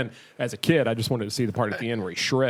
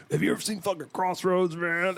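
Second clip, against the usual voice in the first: higher-pitched eager quote; mock enthusiastic; 6 semitones higher, 3 dB quieter than usual. Telling people about Crossroads as a kid, mock eager. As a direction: imitate an eager fan asking around. Imitating younger self gushing to people.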